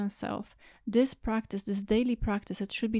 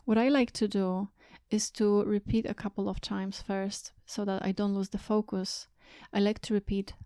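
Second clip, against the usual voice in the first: guided meditation. Real, not acted. Teacher guiding listeners to sit and watch their thoughts, calm meditation voice. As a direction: guide them gently inward, leaving space between phrases.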